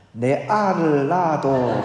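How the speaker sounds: slow, blunt Gyeongsang dialect confession. Acted. Man confessing love to a woman, Gyeongsang dialect. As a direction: draw it out in forthright Gyeongsang dialect. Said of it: "경상도 말로는 "사랑합니다"를".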